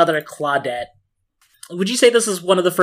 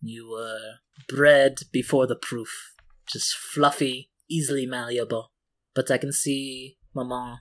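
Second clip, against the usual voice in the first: smiling voice; 4 dB quieter than usual. Acted. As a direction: speak with a proud smile. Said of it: "you can hear the smile in her voice".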